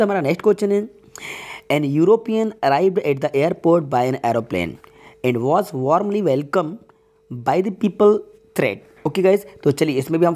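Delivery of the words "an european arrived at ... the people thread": slow, measured classroom reading; slow sentence reading. Acted. Teacher reads the next question to students, slowly and deliberately. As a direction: read it out slowly, word by word.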